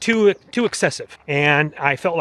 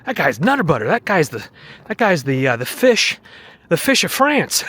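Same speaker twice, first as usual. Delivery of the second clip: goofy hype voice; 4 semitones higher, 4 dB louder than usual. Acted. Silly hype voice for friend.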